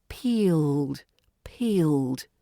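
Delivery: "Peeled" with a long, stretched E vowel; long E sound. Shown as a demonstration. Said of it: "stretching that E sound".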